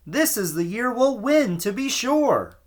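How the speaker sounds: high, eager Irish lilt; Irish townsperson. A narrator's reading. Townsperson insists.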